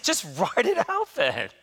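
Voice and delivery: chuckling as he repeats the doctor's brush-off; half-laughing, amused disbelief; laughing through the quote. Real, not acted. Retelling the doctor's advice to the church, laughing.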